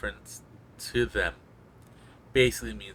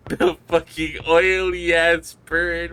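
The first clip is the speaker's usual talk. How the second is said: higher, louder, slow goofy drawl; exaggerated goofy voice; 7 semitones higher, 8 dB louder, slower than usual. Repeats bird line, voiced vs plain.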